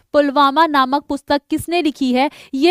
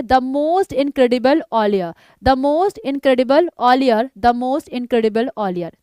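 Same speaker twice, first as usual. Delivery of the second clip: slow drill repetition; much slower than usual. Shown as a demonstration. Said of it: "तीन चार बार इसको रट लो".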